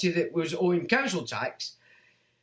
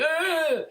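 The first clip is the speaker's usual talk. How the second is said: mock cry; 9 semitones higher than usual. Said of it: "bolstering that cry".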